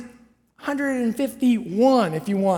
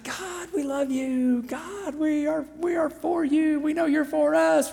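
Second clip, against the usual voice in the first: higher, softly gushing praise; mock adoring; 5 semitones higher, 5 dB quieter than usual. The people gushing to God after the water flows, mock adoring. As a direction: gush sweetly as the imagined crowd.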